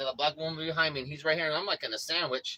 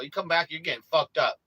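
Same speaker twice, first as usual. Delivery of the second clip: raised voice, blunt threat; retold threat; 2 semitones higher, 3 dB louder than usual. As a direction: warn him off, hard and loud. Threatening the guy.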